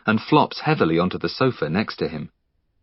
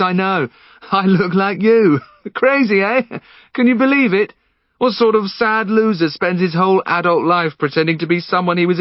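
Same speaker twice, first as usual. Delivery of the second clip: much higher, giddy unhinged voice, laughing; manic Henry; 11 semitones higher, 3 dB louder than usual. Acted. Henry pinning Finn down, manic and giddy. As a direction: manic intruder mocking himself.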